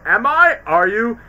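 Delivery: eager disbelief; imitating an excited panda; mock surprised. Poe's quoted reaction, excited.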